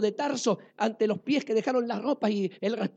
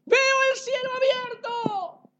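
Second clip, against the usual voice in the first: a lifted, slow, wondering cry; awed exclamation; 13 semitones higher than usual. Acted. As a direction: let the vision break over you. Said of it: "exclamó".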